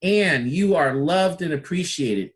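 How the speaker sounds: slow, emphatic compliment; slow heartfelt praise; with an exclamation point. Shown as a demonstration. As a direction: lean into every word of praise. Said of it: "Exclamation point".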